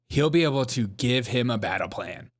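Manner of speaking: a hint of mock voiceover; mock narration voice. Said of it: "that little narration voice".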